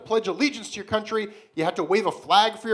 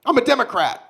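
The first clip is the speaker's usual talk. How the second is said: mock American; 6 dB louder than usual. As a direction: boom it out like a flag-waving American. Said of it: "Ask any American".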